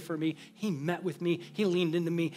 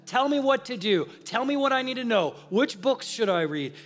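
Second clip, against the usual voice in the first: higher, pushy plea for answers; eager demand; 5 semitones higher than usual. Retold or imitated. Pastor pressing his mentor for quick answers, eager. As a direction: press for the five steps like a keen student.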